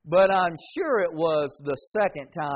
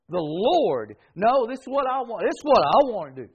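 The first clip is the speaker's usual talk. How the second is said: fast, louder self-willed insistence; stubborn insistence; 4 semitones higher, 5 dB louder than usual. Retold or imitated. Headstrong believer insisting on own way, fast and pushy. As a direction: rush it like a headstrong child. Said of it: "It'd be a whole lot better to say".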